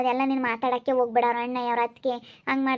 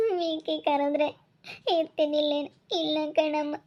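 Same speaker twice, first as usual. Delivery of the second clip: tearful. Acted. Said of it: "ಸುಮ್ಕಿರು, ಅಳ್ಬೇಡ".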